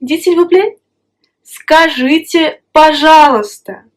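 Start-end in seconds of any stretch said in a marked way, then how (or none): 1.4-3.8 скажите drawn out slowly, then пожалуйста said clearly; скажите, пожалуйста spelled out by voice; slow model phrase. Shown as a demonstration. A teacher slowly models скажите, пожалуйста. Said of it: "tu peux dire скажите".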